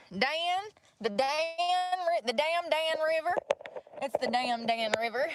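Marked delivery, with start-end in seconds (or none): 0.1-3.3 surprised. Real, not acted. Realizes it's the Dan River.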